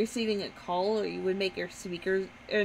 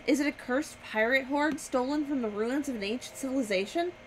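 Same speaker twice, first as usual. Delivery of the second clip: put-on slightly higher voice of a curious boy; boy's voice; 4 semitones higher than usual. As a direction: ask Pop like an eager young boy. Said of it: "A boy's voice asks".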